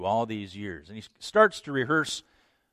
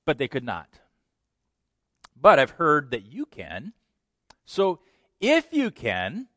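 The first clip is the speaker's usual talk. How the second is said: bargaining king; 3 semitones higher, 5 dB louder than usual. Acted.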